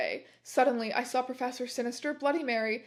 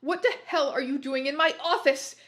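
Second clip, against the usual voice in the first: angry shout; 3 semitones higher, 4 dB louder than usual. Acted. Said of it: "began to shoot angrily".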